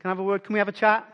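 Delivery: gentle request. Retold or imitated. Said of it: "Jesus says to Peter".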